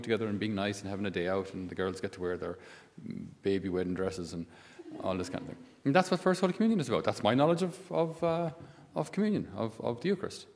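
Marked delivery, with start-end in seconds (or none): 5.9-10.5 high, fast mock of a shallow Catholic. Priest mocks a shallow view of First Communion in a high, fast voice. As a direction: parody someone who never learned the faith.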